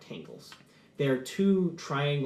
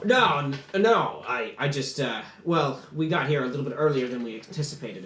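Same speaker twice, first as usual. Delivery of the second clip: mildly flustered companion, loud at first; 4 dB louder than usual. Acted. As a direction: stammer an excuse, then settle down. Dwarf companion flustered at being caught.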